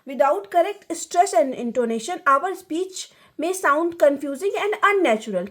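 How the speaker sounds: slow, deliberate reading of notes; dictating slowly to students; slow lecture reading. Acted. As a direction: read the definition out slowly for the class.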